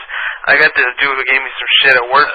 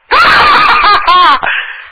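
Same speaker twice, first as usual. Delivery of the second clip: loud shrieking laugh; 5 dB louder than usual. Acted. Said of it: "you were too hardcore".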